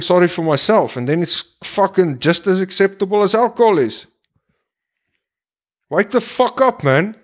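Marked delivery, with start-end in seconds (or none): 5.9-7.2 higher, urgent call to wake up; exasperated rallying cry; frustrated outburst. Real, not acted. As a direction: snap the listener out of it. Ranting at drinkers.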